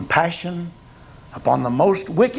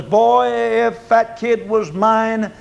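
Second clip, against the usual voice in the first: stern church gossip; 3 semitones higher, slower than usual. Retold or imitated. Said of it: "But he says".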